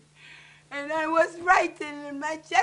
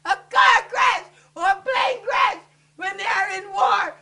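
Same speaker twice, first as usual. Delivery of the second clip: raised, loud, impassioned outcry; anguished plea; 4 semitones higher, 5 dB louder than usual. Real, not acted. Daughter asking how the dead will be identified, anguished plea. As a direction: plead loudly through grief.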